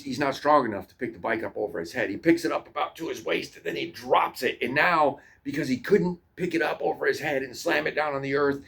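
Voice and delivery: normal talking voice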